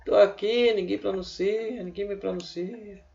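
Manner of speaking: a hint of a whiny complaining letter. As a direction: play the letter H moaning it is ignored. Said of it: "O H deve estar reclamando". (voz de queixa da letra H)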